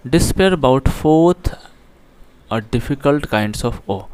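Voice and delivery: slow, careful reading aloud of the English line; slow text reading. Shown as a demonstration. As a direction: read each word out deliberately for the class. Reads English text aloud slowly. (धीमे, साफ़ अंग्रेज़ी पाठ-वाचन)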